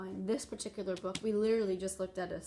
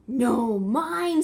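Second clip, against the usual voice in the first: mock squabble; 3 semitones higher, 12 dB louder than usual. Eagle arguing over the egg with the lizard, mock squabble. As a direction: snap it back like a squabbling bird. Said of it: "says the eagle".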